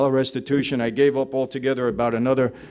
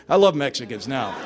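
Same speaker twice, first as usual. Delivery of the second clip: laughing. Real, not acted. Laughing at own joke.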